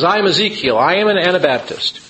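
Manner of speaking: lightly voiced Anabaptist ghost. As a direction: announce yourself as a dead believer. Ghost Ezekiel voiced in story.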